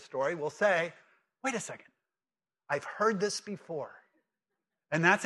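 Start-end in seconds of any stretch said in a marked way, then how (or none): 1.4-3.9 hushed, softer voice of realisation; dawning recognition. Acted. Readers recognising the Exodus story, hushed and puzzled. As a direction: drop the volume, as if it just clicks.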